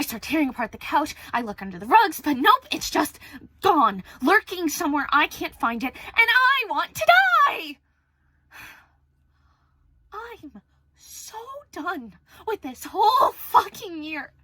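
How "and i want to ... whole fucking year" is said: slow, crying, voice cracking; on the verge of tears. Real, not acted. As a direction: let it break into tears. Breaking down over the year.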